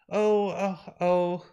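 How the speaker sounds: distressed moaning. Acted. Breaks down, then is comforted.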